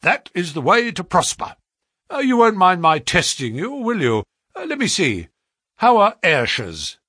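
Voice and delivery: butter him up briskly; flattering brisk agent. A narrator's reading. Agent flatters the clerk's talent, eager and brisk. Pinner tests Pycroft.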